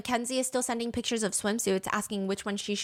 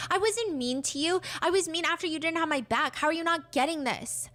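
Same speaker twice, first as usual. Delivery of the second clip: higher-pitched, indignant protest; exasperated text voice; 6 semitones higher than usual. Retold or imitated. Girlfriend defending herself to boyfriend, exasperated. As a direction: argue back high and exasperated.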